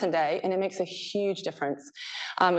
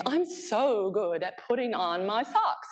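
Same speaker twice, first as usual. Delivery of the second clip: mock boast; 4 semitones higher, slower than usual. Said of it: "exaggeration games".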